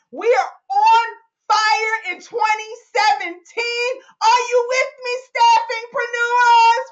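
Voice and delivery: rising, rallying cry to the crowd; fired up. Real, not acted. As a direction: build to a loud, high rallying call. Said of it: "Getting fired up over here".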